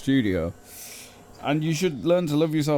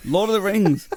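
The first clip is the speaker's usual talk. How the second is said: silly voice; 7 semitones higher, 4 dB louder than usual. Pretend. Silly voice after laughter.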